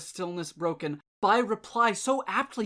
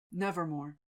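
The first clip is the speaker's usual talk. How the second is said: raven's reply; 4 semitones lower, 7 dB quieter than usual. A narrator's reading. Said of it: "Quoth the raven".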